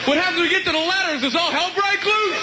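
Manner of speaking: high-pitched, worried dimwit voice; hammed-up bewildered passenger; confused passenger. Plays confused passenger counting seat rows.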